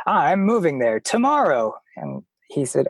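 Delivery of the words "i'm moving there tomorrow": proud and sure. Retold or imitated. Traveler retells telling a Londoner about the move, proud and sure. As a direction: imitate your younger, very sure self. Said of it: "So proud and sure of myself".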